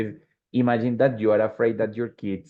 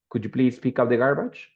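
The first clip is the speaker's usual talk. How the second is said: polite favor. Shown as a demonstration. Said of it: "when you ask for a favor".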